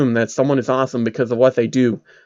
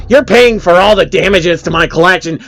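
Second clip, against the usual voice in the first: high, louder incredulous whine; whiny man-child; 5 semitones higher, 4 dB louder than usual. Acted. Phil blames narrator.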